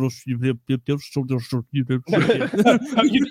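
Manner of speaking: garbled wordless mumble; mock mumbling. Fake leader addressing troops, unintelligible mock mumbling. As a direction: mumble gibberish as if making a speech. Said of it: "you're just mumbling like".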